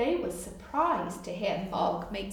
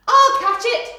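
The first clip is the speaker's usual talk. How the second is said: high, loud eager dog voice; a keen dog joining the chase; excited big dog; 13 semitones higher, 15 dB louder than usual. Acted. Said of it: "thought a big dog".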